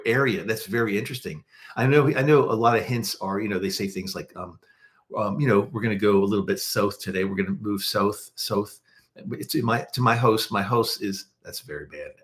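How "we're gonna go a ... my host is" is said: lightly put-on Toronto accent; bad Toronto accent. Shown as a demonstration. Host giving viewers examples of local speech, bad Toronto accent. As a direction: try a clumsy Toronto accent, rounding the vowel in south. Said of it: "very bad accent".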